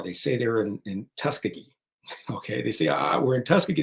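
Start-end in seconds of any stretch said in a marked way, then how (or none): 0.8-1.7 Tuskegee with a weakened middle syllable; imitating outsiders botching the name Tuskegee; mispronounced Tuskegee. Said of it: "can't even pronounce where they are". 2.9-3.8 higher-pitched imitation of flustered handlers; lightly acted panic, fumbling the name Tuskegee; mock panic. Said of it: "they're panicked".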